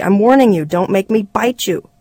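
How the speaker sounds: put-on mildly angry child's threat. Small boy threatening to bite brother, angry. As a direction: warn crossly, slowing on the threat. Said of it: "Patrick said angrily".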